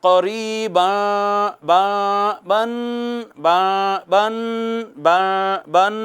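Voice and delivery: قریباً ending in a light hidden بن; light ikhfa. Shown as a demonstration. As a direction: hold بن lightly nasal for one alif. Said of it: "light ہوگی مگر چھپائیں گے ایک الف".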